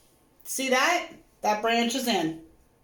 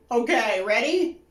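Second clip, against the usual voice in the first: excited dread. Real, not acted. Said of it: "I'm so excited and nervous at the same time".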